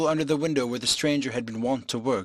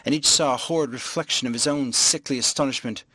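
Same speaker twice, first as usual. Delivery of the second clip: plain reading voice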